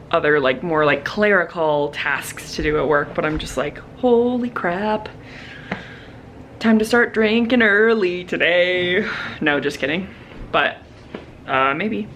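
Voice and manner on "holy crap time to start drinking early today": joking exasperation. Acted. Joking exasperation after chaotic day.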